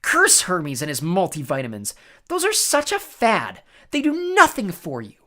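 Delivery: sorceress raving, rising high; frustrated howl. A narrator's reading. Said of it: "Circe howled in frustration".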